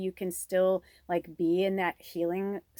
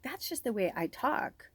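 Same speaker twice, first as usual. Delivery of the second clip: defensive retort; 5 semitones higher than usual. Retold or imitated. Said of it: "because I'm like".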